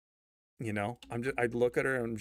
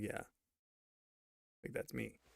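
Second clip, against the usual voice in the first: meek mumble; 5 semitones lower, 14 dB quieter, much slower than usual. Retold or imitated. He's like.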